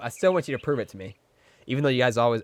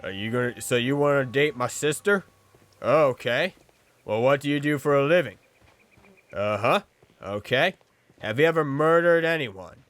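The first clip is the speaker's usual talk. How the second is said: hint of a suspicious movie dad, questioning; lightly voiced movie dad grilling a suitor; 3 dB louder than usual. Movie dad vets sister's date, hint of stern questioning. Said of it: "she's the stereotypical movie dad".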